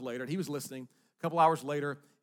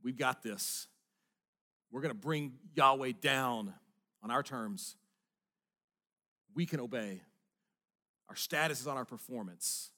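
proud religious leaders. Retold or imitated. Pastor voices smug religious leaders, lightly swaggering. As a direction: puff up like a self-assured leader. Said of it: "chest out".

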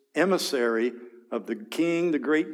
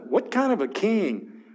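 higher taunting challenge; 7 semitones higher than usual. Acted. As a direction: taunt the listeners on the walls. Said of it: "here's this taunting arrogance".

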